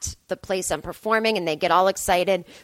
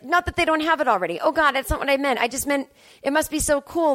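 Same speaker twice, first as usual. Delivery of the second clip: higher, hurried self-correction; flustered backpedalling; 5 semitones higher than usual. Retold or imitated. Comedian to star's wife after a gaffe, flustered backpedalling. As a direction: scramble to take it back.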